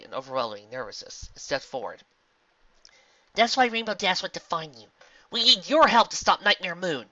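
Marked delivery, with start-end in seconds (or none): 3.3-7.1 higher, louder pleading pony; earnest pony. Acted. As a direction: appeal earnestly for help. Twilight pleads for help.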